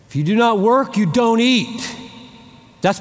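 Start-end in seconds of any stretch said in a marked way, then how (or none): 0.1-1.8 emphatic proclamation. Acted. Quoting Bible rule emphatically.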